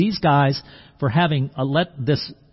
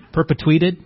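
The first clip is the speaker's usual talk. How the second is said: questioning echo; 2 semitones higher, 4 dB louder than usual. Shown as a demonstration.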